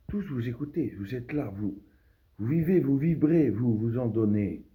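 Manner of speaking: high, swelling declamation; rousing oratory. Acted. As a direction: build loudly to rouse the listeners. Address rises after the hush.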